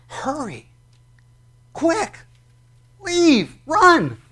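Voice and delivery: urgent commands. Shown as a demonstration. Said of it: "you can put in the word there".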